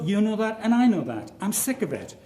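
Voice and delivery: heated quoted retort; heated emphasis. Retold or imitated. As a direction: press it home, exasperated. Quoted Finkelstein rant, voice rises.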